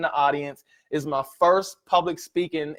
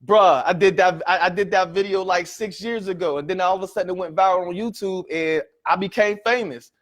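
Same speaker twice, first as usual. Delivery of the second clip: Eric Thomas voice; 2 semitones higher than usual. Retold or imitated. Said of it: "y'all know how he talk".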